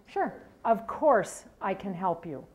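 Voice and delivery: slow, gentle, reassuring; calm reassurance. Retold or imitated. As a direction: soothe a lost caller slowly. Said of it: "And that's how he said it".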